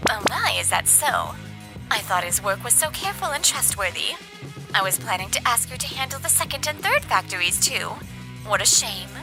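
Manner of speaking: soft, demure regret; softly polite, a little let down; politely regretful client. Acted. Client politely regrets staff departure.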